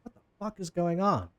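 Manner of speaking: a touch of disbelief, not shouted; mildly baffled onlookers. Acted. Two people on the walkway looking down, mildly baffled. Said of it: "also looking down. It's like".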